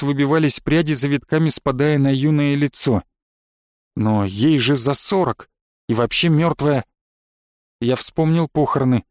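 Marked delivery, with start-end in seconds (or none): none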